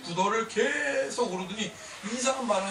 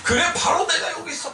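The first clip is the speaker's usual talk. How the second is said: 바로 내가 여기 있어 called out with a laugh; emphatic declaration; 7 semitones higher, 4 dB louder than usual. Shown as a demonstration. Preacher voicing God's answer to the church, laughing proclamation. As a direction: proclaim "그래, 바로 내가 여기 있어" joyfully. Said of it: "Here이 붙다는 뜻은".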